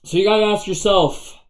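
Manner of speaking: failed Clint Eastwood attempt, too high; badly faked movie tough guy; botched Clint Eastwood. Shown as a demonstration. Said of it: "sorry, that was terrible".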